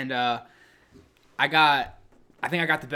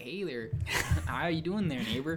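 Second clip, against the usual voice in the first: put-on Michigan accent; 2 semitones higher than usual. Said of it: "their accent is like".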